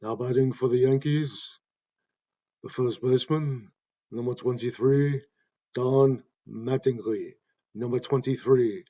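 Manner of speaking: measured, reverent ballpark announcer reading the lineup; Bob Shepard announcing a batter. Retold or imitated. Showing how the announcer introduced Mattingly, a mild stately PA delivery. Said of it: "For example".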